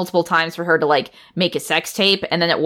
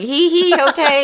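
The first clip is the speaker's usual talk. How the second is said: giggly; 9 semitones higher, 3 dB louder than usual. Retold or imitated. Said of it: "covering her face".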